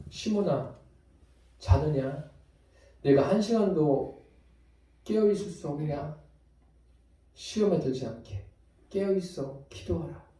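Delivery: soft, quiet, gentle waking words; gentle quiet rebuke. Acted. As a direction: softly rouse a tired friend. Jesus gently wakes Simon. (부드럽고 조용한 꾸짖음)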